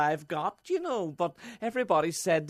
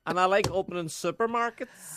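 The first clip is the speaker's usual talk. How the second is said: lightly voiced Dublin girl accent; a bad Dublin accent, playing a contestant. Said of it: "Very bad Dublin accent".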